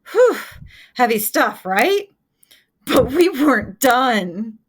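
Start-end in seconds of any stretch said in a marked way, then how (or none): 0.1-0.4 relieved whew. Real, not acted. Exhales after heavy material.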